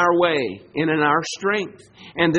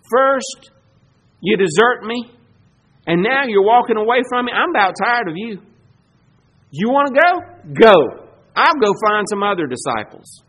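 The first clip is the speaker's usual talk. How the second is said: exasperated rant. Retold or imitated. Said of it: "what I would have been tempted to say".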